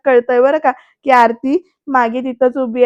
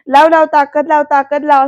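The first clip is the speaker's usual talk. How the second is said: louder, egging her on to push harder; playful louder goading; mock encouraging shout; 2 semitones higher, 5 dB louder than usual. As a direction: cheer her on teasingly, louder. Prithvi goading Aarti to push.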